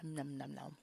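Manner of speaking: eating a rice cracker; crunching. Real, not acted. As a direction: talk through a mouthful of crunch. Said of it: "Don't mind my crunching".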